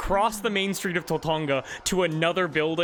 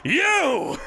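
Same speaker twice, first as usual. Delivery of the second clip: high loud accusing yell; furious cry; 12 semitones higher, 5 dB louder than usual. Acted. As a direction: spit the word at them. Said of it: "her, and goes".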